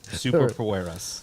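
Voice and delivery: "Superpoweras" with a fake-Spanish "-ras" ending; mocking mispronunciation. Still grumbling over the sponsor's word, mock-Spanish "Superpoweras". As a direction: echo the ad's Spanish-style "Superpoweras". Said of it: "every time they say it".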